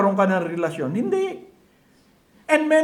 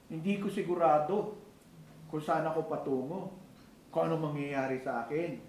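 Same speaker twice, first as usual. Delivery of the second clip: unsure inner voice; 5 semitones lower, 10 dB quieter than usual. Retold or imitated. Voicing an unsure person's thoughts.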